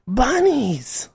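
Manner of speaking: BUNNIES in a very high, stretched-out wail; mock protest scream. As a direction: imitate a weird-sounding protester squealing the word. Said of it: "they'd go".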